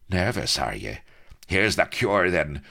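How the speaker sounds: high, loud mocking taunt; raging pirate goading the captain to fight; sneering. A narrator's reading. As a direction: sneer him into drawing. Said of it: "sneered the raging colonel".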